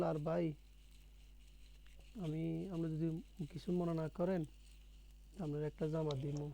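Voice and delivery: gentle, hesitant offer with careful pauses; mildly acted tender politeness; affectionate. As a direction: offer it tactfully, as if not to hurt his pride. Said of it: "স্নেহ ভরে".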